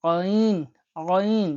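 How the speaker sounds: আইন squeezed from the throat; throaty ain. Shown as a demonstration. Teacher showing the Arabic throat letter, squeezed from the throat. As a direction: tighten the throat on the opening আ of আইন. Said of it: "গলার আওয়াজ হবে এখানে".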